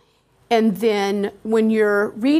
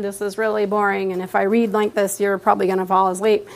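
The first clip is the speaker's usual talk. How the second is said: monotone. Shown as a demonstration. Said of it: "Do not read in a monotone".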